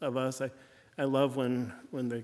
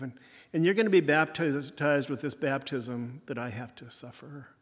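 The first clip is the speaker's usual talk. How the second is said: softened Jesus. Retold or imitated. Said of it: "And he softens".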